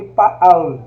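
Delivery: pa'al said as pah-AHL with a glottal break between the vowels; Hebrew word pa'al. Shown as a demonstration. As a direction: sound out pa'al slowly, two clear syllables. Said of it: "temos a palavra aqui".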